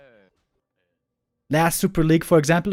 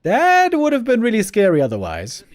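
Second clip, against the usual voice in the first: relieved excitement; 6 semitones higher, 3 dB louder than usual. Real, not acted. Relief after near kill.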